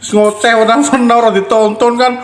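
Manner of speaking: laughing. Real, not acted. Laughs while joking.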